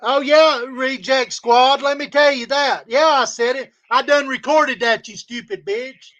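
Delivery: loud, gloating challenge to his critics; angry taunting. Real, not acted.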